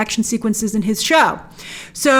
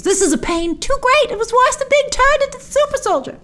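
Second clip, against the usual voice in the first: mock anguished cry; 13 semitones higher than usual. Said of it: "Here she screams".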